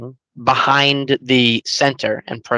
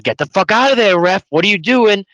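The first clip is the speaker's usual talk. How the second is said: higher-pitched mild mock yell; retold mock yell; 6 semitones higher than usual. Fan retelling his outburst at the ref, mild mock yell. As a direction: re-enact yelling at the TV without full volume. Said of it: "literally screaming at the T V".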